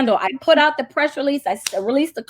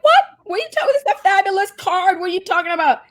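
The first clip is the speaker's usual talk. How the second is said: indignant disbelief; 6 semitones higher, faster than usual. Retold or imitated. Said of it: "We were all like".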